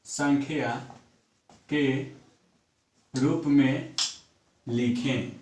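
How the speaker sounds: slow, word-by-word dictation with long pauses; teacher dictating the question to students, slowly. Acted. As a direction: dictate so students can write it down.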